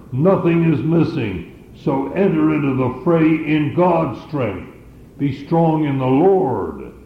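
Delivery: lightly voiced rallying commander, rising in pitch at Nothing is missing; a hint of a general urging his army into the fray; commander's rallying call. Preacher voicing a commander sending his army to battle, lightly rallying. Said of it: "sound very much like the words of a commander".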